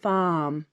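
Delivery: FARM drawn out on the ah, no R; elongated non-rhotic R. Shown as a demonstration. Showing it is not rhotic, vowel elongated. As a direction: stretch the vowel in farm without curling the tongue. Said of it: "just an elongated R".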